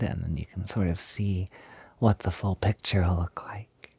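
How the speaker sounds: soft murmured whisper. Acted. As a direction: drop into a hushed whisper. Quiet setup while laying clothes out.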